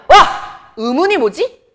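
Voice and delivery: high, loud playful wow; mock excited question. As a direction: ham up an eager quiz question. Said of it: "우리가 물어볼 거야".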